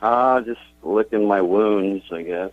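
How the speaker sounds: slow, dejected admission trailing down; real slow, sinking disappointment; upset, defeated. Real, not acted. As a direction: sound beaten and upset, drawing the words out slowly. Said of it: "God, you sound so upset".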